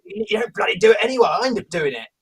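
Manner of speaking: lightly put-on Australian accent, annoyed; a touch of jokey Australian twang; Perth Australian accent. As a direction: bicker in a mock Perth accent.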